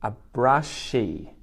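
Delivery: A brushy said slowly and clearly, stressing brushy; deliberate teacher pronunciation; slow model word. Shown as a demonstration. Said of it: "this is called a brushy".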